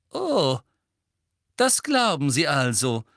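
forgetting to whisper. A narrator's reading. Teacher straightens up at Hermine's challenge, no longer whispering. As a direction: drop the hush and speak up. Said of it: "die zu flüstern vergessen hatte".

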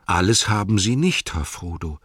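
a faithful hobbit, humble and earnest; Sam's voice. Acted. Sam speaks in audiobook.

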